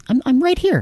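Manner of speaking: insistent reply. Real, not acted. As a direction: pipe up loudly to prove you're there. Told to come up on mic.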